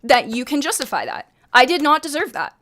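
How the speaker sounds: heated but not yelling; firm heated talking. Retold or imitated. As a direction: press hard without raising to a shout. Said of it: "I wasn't yelling, but I was, like, talking like this".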